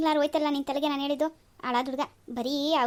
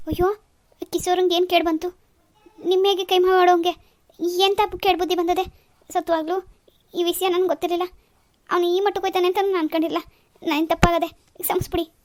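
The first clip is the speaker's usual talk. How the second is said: higher, louder tearful wail of regret; tearful pleading; 4 semitones higher, 5 dB louder than usual. Acted. Mother wailing to husband over son's misdeeds, tearful. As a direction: cry out in shame over the son. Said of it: "ಇಷ್ಟು ಕಣ್ಣೀರ್ ಹಾಕ್ತಿದಿ?".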